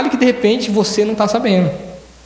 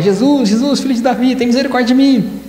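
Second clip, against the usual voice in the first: mild mock cry out; 5 semitones higher than usual. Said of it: "depois dele gritar, se esgoelar".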